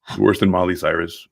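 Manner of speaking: normal talking voice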